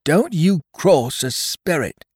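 frightened pirate warning his captain; fearful warning. Acted. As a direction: warn him not to anger the ghost. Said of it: "said Merry".

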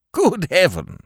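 high, astonished cry; surprised exclamation. Acted. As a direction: gasp it out in wonder. Scrooge sees his childhood home.

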